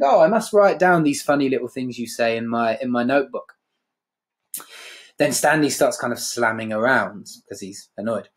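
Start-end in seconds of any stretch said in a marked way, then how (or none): 0.0-3.6 patronising. Retold or imitated. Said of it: "how patronising that she would think".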